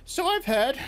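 put-on high, wheezy old crone voice; wheezing old crone. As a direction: wheeze it like an ancient witch. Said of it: "wheezed the old woman".

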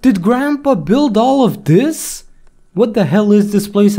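high alarmed voice; frightened. Real, not acted. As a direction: sound scared and amazed. Discovers creepy cellar.

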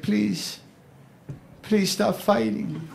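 high, soft, slow plea; begging them gently to stop; pleading neighbour. Retold or imitated. Neighbour begging the couple to stop fighting, soft plea. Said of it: "He's like".

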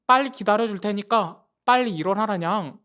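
put-on loud impatient cat-girl yell; shouting wake-up. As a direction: shout them out of bed.

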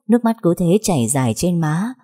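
ordinary delivery, nothing marked

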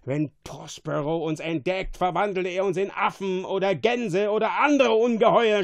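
rising from tense warning to loud, high cry; frightened creature's mounting alarm; fearful shouting. A narrator's reading. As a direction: build into panicked yelling. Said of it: "schrie Caliban voll Angst".

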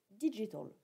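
"digital" said the English way, ending in an "-tol" sound; self-mocking French teacher's English accent on "digital". Shown as a demonstration. Teacher showing the English word with a French-tinted English accent. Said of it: "avec mon super accent".

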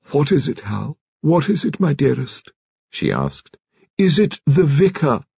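wife asking her dying husband if he wants the vicar; urgent tender question. A narrator's reading. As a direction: lean close and ask gently but urgently. Wife pleading at deathbed.

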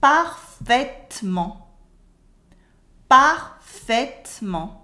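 slow, loud "Parfaitement" as "par-fait-ment"; dropped French E. Shown as a demonstration. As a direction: model "Parfaitement" in three syllables. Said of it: "Repeat after me".

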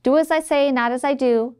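bossy teacher. Retold or imitated. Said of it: "you might hear things like".

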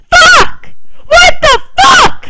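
very high, loud furious yell, last words slow; rage shout. Real, not acted. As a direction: scream at the screen in fury. Game glitch rage.

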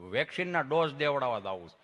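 low, with a stuck first word; imitated tongue-tied man; stammering friend. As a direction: stutter on the opening, then push through. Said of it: "જીભ જલાય, સોંટે અટકે".

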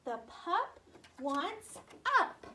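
"The pup wants up" stretched out slowly; teacher slowly drawing out the sentence. Shown as a demonstration. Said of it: "modelling phonics sentence".

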